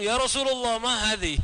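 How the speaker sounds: high, startled-sounding mock challenge; immediate questioning. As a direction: blurt it out as an instant query. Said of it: "lalu langsung".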